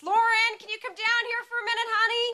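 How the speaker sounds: high, loud sing-song call. Acted. Father calls his daughter downstairs, loud sweet call.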